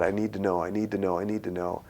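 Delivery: hushed, repeated plea under the breath; quiet re-enacted begging; retold pleading. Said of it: "I am pleading with God".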